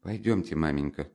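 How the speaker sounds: hushed, anxious urging; softly urge, as if half whispering; frightened whisper. Acted. Frightened daughter urging mother out of the room, hushed. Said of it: "шепнула испуганная Дуня".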